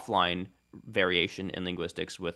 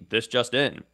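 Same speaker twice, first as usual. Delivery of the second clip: broadcast news voice; 4 semitones higher, 5 dB louder, slower than usual. Retold or imitated. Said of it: "on broadcast T V".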